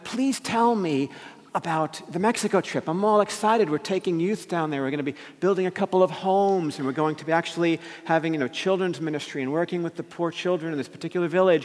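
retold eagerness, pitch lifted; lightly acted excitement; all excited. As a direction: act out keen anticipation for the trip. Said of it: "I was all excited about this".

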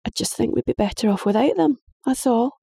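high, exasperated protest; indignant girl. Acted. Daughter voiced, high.

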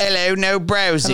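high, slow stern shop official; mock official. Mock shop official telling a customer no browsing. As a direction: announce the rule like a stern clerk.

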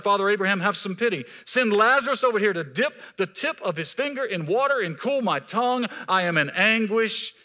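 loud, high desperate plea; a rich man in torment begging loudly; shouted plea. Acted. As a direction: cry out to Abraham for mercy. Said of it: "The rich man shouted".

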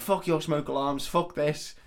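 retold outburst. Man kicking off at the smoke alarms, retold with mock anger. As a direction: act a mild tantrum. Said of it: "he just kicks off".

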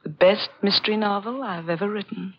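ordinary talk

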